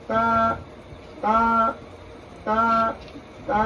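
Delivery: each তা narrow, lips a finger apart; thin vowel. Shown as a demonstration. Teacher drills the correct letter for students, thin vowel. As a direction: repeat তা light and thin, evenly spaced. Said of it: "এরকম, এক আঙ্গুল পরিমাণ".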